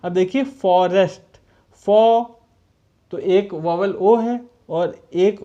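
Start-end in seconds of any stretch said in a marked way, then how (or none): 0.4-1.4 फॉरेस्ट said loudly as a whole word. Shown as a demonstration. Teacher presents the word for counting vowel sounds, whole word. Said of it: "इसमें vowel sound कितनी आ रही है". 1.9-2.2 फॉ isolated, higher and much louder; first syllable alone. Shown as a demonstration. Teacher sounding out forest for pupils, first syllable alone. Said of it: "इसमें vowel sound कितनी आ रही है".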